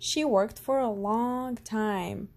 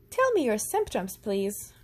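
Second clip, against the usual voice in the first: put-on quick, bright child voice; girl mimicking a doctor; little doctor. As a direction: play the serious little doctor.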